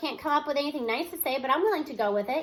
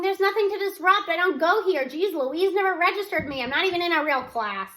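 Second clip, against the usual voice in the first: 1 held-back scream; 4 semitones higher, 4 dB louder than usual. Acted. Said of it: "hold myself back from screaming".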